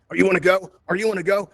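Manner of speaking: lightly acted prying question; imitating nosy strangers. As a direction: pester like a stranger coming up to ask. Imitates strangers coming up asking.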